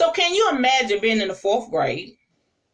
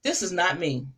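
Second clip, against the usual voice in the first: quiet realization; 6 semitones lower, 6 dB quieter than usual. Retold or imitated. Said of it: "I was like".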